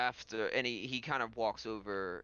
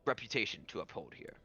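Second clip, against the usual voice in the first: composed lord character; 3 semitones lower, faster than usual. Acted. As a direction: ask a discreet favor, with hesitant pauses. Game master voices the lord.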